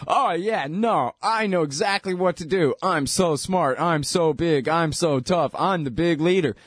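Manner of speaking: hammed-up dictator boasting, only a hint of a put-on voice; mock Mussolini boast. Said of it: "he's up there and he's going".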